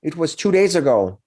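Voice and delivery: put-on a nervous teenager admitting where he went; a young orc telling the heroes about the dragon.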